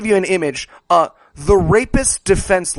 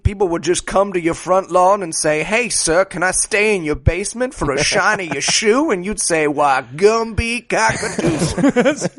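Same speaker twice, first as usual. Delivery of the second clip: put-on old-timer reminiscing. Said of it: "back in my day".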